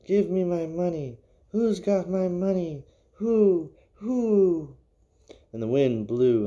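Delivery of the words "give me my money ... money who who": high, louder ghost wail; eerie ghost cry, rising and loud; ghostly wailing voice. Acted. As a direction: demand the money back like an angry spirit. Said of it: "a voice cried".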